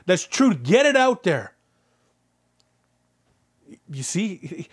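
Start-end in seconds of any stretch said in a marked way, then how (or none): 0.0-1.5 high, drawn-out exultant cheer; excited Holy Spirit. Acted. The Holy Spirit cheering the preacher on, excited. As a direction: cheer it on, stretching the yes. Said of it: "gets excited and going".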